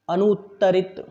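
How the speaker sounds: अनुत्तरित said crisply, with the doubled त्त clearly held; model pronunciation. Shown as a demonstration. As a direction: give अनुत्तरित as a clean model for the class. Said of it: "मैं बोलूँगा, फिर आपको बोलने के लिए कहूँगा". (अनुत्तरित का स्पष्ट उच्चारण)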